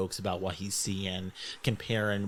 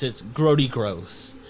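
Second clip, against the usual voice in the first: disgusted; 6 dB louder, slower than usual. Acted. Exaggerated disgust, slow.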